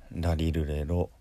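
"ラリルレロ" in ordinary Japanese, tongue touching lightly; light tongue taps on each syllable of "ラリルレロ"; 軽くつけるラ行. Shown as a demonstration. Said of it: "一応軽くひっつけながら発音する". (「ラリルレロ」を日本語の軽い舌で)

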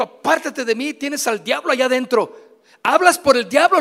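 mock stern rebuke growing loud. Jesus rebuking Peter.

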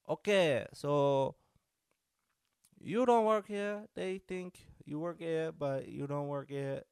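high, slow imitation French accent. French friend checking whether he's a bouncer, imitated French accent. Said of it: "when you can do the accent".

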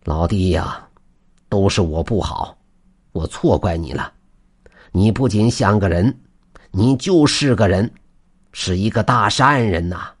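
put-on remorseful, moved old man; understated tearful sincerity; trembling voice. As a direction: apologize as if close to tears, held back. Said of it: "他颤抖着声音说道".

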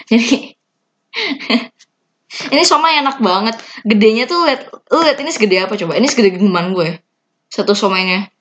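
talking while chewing; mouth full. Real, not acted. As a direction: speak through a bite of shumai. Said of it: "nggak enak ngomong sambil ngunyah".

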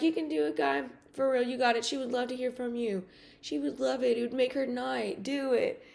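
retold pep talk, pitched a bit up; urging him on, retold; encouraging pep talk. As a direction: eagerly coax him into it.

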